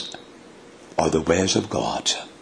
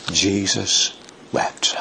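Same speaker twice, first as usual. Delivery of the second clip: hushed reverent reading; 4 dB quieter, slower than usual. Shown as a demonstration. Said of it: "Just two words".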